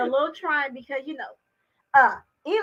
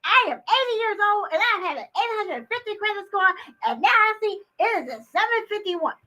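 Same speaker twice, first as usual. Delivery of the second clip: mock elderly screaming caller; 6 semitones higher than usual. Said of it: "you get a screaming".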